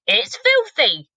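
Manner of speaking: hammed-up spluttering giant; spluttered. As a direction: giant spitting out disgust. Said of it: "he spluttered".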